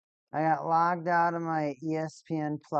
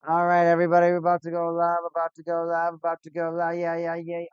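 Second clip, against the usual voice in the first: going-live announcement; 3 semitones higher, 7 dB louder, faster than usual. Real, not acted.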